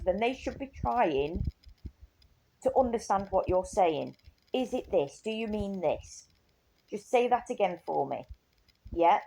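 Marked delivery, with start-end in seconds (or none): 4.5-9.2 soft, patient coaxing; gentle and patient. Retold or imitated. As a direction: coax them gently, no rush. Gently modelling patient carer talk.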